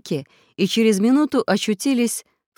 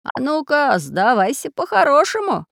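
threatening; 8 semitones higher, 3 dB louder than usual. Acted. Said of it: "пригрозил Семён Семёныч".

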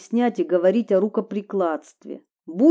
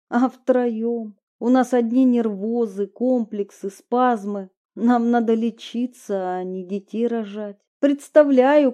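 louder, higher anxious thoughts; agitated; 3 semitones higher, 4 dB louder than usual. Acted. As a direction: panic over what to do. Anguished inner monologue.

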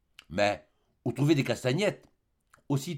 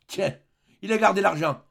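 laughing exclamation; 7 semitones higher, 4 dB louder than usual. A narrator's reading. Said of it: "s'écria-t-elle en éclatant de rire".

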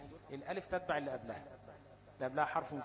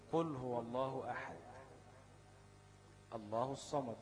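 Quran recitation; slower than usual. Shown as a demonstration. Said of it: "يعني لما أقول".

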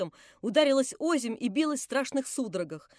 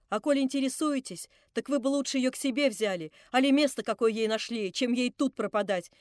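reluctant. Acted. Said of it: "проговорила как бы нехотя женщина".

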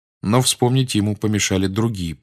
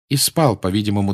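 plain reading voice

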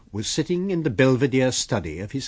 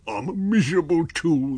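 high, louder voice of a miserable tramp; whining tramp; 8 semitones higher, 6 dB louder than usual. Acted. Tramp protesting to his unseen master, whining. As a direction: put on the high voice of a cowed underling.

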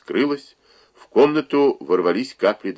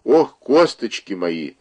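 groan; 3 semitones higher, 4 dB louder, slower than usual. Acted. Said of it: "простонала она".

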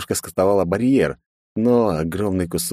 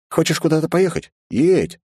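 eager urging; 10 semitones higher than usual. Acted. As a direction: push them to just go. Urging, exclaiming.

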